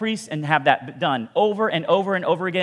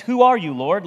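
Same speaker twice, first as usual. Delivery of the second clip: higher and louder, full of awe; awed question; 4 semitones higher, 5 dB louder than usual. Shown as a demonstration. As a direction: ask it as if you already know it is God. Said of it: "Isn't that interesting?".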